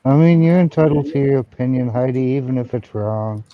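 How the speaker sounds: talking into a bottle. Real, not acted. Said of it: "Is she talking into a cup?".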